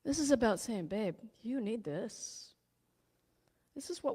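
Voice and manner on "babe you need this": tender. Pretend. Tenderly addressing one's own heartache.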